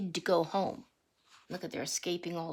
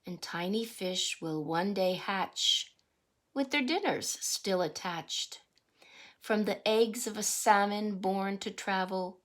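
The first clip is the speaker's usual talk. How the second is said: rhythmic picture-book read-aloud; reading to children. Acted. Teacher reading a salmon picture book to the class, sing-song read-aloud. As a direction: read the verse to the class with a lilt.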